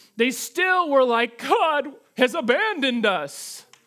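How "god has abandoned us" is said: slow, sarcastic, mocking, put-on despairing tone. Retelling what the people given manna still said, mockingly acting out their words. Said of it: "I say that mockingly".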